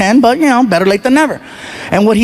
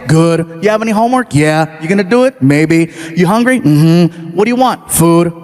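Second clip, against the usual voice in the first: low, flat grunted answers; sullen one-word kid; 5 semitones lower than usual. Retold or imitated. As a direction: give him nothing, one word each. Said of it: "one-word kid".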